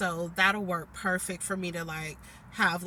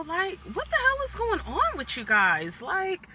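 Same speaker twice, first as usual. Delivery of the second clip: exasperated outburst; 10 semitones higher, 3 dB louder than usual. Real, not acted. Venting about coworkers.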